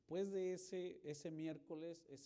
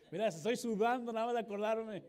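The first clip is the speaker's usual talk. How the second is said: flustered outburst; 8 semitones higher, 15 dB louder than usual. Real, not acted. Embarrassed recalling public apology.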